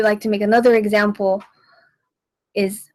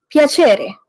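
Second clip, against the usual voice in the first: PIACERE said big, its middle punched and then dropping; exaggerated emphasis; 4 semitones higher, 4 dB louder than usual. Shown as a demonstration. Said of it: "and exaggerate the words".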